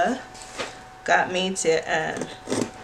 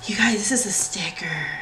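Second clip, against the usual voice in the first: whisper. Real, not acted. Whispered delight at sticker.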